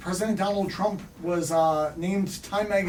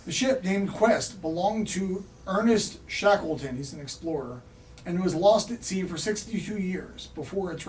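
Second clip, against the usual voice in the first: slightly raised news-reader delivery; mock news read; 2 semitones higher than usual. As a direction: read out a comic news bulletin. Resumes the mock news item.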